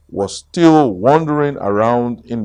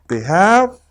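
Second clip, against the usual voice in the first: Piglet voice; 7 semitones higher than usual. Acted. Piglet asking Pooh.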